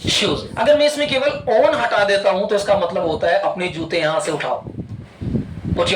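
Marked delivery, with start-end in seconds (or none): 0.1-0.4 each word slow and spaced; slow dictation. Shown as a demonstration. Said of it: "Speak out again।". (शब्द-शब्द धीरे बोलकर लिखवाना)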